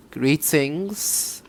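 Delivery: soft sultry greeting, lilting upward; quiet, tentative sultry feminine voice; sultry woman. Acted. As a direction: try on a sultry woman's voice, softly. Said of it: "trying to do like a sultry woman's voice".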